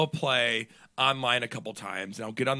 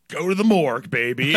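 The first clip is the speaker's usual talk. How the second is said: over-the-top taunt; 2 semitones higher, 8 dB louder than usual. Retold or imitated. Gamer topping a kid's trash talk, loudly taunting. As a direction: land the outrageous punchline big. Retold escalating taunt to kid.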